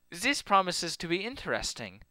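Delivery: put-on mixed Russian-German accent, quiet; half-Russian, half-German accent. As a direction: size up a rival in a vague German-Russian accent. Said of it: "It's like half Russian".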